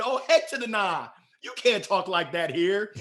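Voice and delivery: hammed-up disapproval; mock outrage. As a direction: lay down the law in comic horror. Adults' mock outrage at his speech.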